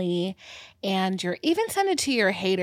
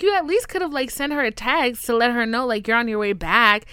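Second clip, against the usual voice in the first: lightly raised mock scolding; mock angry cop; 3 semitones higher, 5 dB louder than usual. Cop scolding mom, mild mock anger. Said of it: "He was like".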